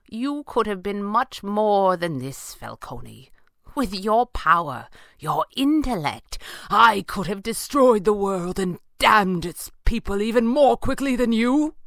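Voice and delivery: high, loud, slow declamation; impassioned villain's boast; calling out. A narrator's reading. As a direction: call out grandly in reproach. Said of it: "Falcone called".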